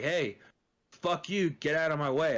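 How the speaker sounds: retold angry retort. Blocked-in driver yelling back at the other, mildly heated retort. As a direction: fire back at him, half-acted.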